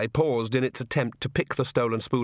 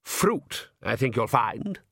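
mildly correcting, composed count; calm; much slower than usual. Acted. Count corrects his daughter about the wine, calm. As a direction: correct her without fuss. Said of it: "said the Count calmly".

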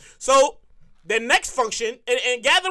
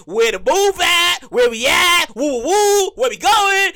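louder, hyped partygoer calls; 4 semitones higher, 4 dB louder, slower than usual. Retold or imitated. Off work early, asking where the party is, hyped and loud. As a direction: whoop it up looking for the party.

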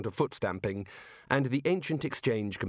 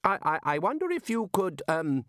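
querulous voice; 7 semitones higher than usual. A narrator's reading. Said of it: "the querulous voice went on, apologizing".

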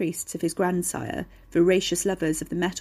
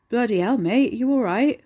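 mock concern; 5 semitones higher, 5 dB louder than usual. A narrator's reading. Ricky feigns concern for the driver.

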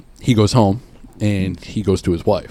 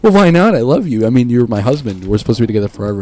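mock pleading wife; 4 semitones higher, 6 dB louder than usual.

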